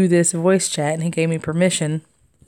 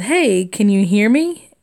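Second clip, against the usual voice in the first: put-on Southern accent; 3 dB louder than usual. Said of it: "I said".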